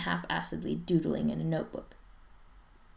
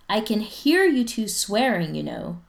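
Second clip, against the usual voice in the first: raised voice, a touch higher; calling across the hall; 4 semitones higher, 6 dB louder than usual. Acted. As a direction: call it out to the next room. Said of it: "Spencer's mom calls from across the hall".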